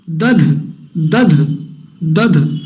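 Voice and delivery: दध with plain then breathy d; दध, first द unaspirated, then ध with a puff of breath. Shown as a demonstration. Teacher contrasting द and ध slowly. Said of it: "पहला अल्प प्राण, दूसरा महाप्राण".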